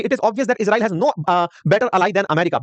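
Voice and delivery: slow, careful reading of an English quote; reading a leader's message aloud, slow and deliberate; slow quoted reading. Retold or imitated. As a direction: spell it out word by word, slowly. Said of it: "बाकायदा उन्होंने पूरे सारे messages लिखे".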